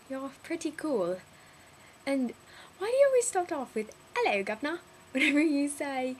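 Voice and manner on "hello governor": mock British catchphrase; British greeting. Teasing Kelly about how she opens, mock British accent. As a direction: imitate a stock British greeting. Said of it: "whenever you talk in a British accent".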